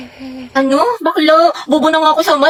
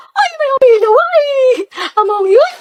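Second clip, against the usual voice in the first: very high, startled outburst; startled squeal; 10 semitones higher, 4 dB louder than usual. Acted. Student interrupted in class talent act, startled squeal. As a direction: squeal high and loud in mock alarm.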